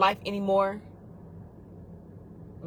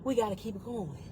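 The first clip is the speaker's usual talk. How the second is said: inner voice; 2 semitones higher than usual. Retold or imitated. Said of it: "find that internal voice that tells you".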